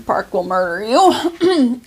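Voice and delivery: laughing at her own joke. Real, not acted. Joke about the tumbler pun.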